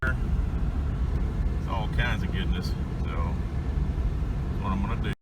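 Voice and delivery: talking over a rumbling tractor; tractor noise behind. Real, not acted. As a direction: speak with a tractor running nearby. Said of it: "Sorry about the tractor noise in the background".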